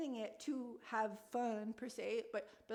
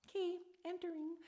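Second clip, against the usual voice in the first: much higher, bubbly and playful; cute playful entry; 7 semitones higher than usual. Real, not acted. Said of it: "I'm so cute".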